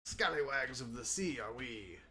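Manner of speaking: a light pirate sea-shanty voice; hammed-up pirate rhyme. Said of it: "I lost my pirate voice".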